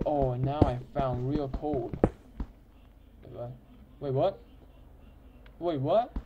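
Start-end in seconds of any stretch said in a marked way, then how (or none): 3.2-6.2 surprised. Real, not acted. Surprised in the cave.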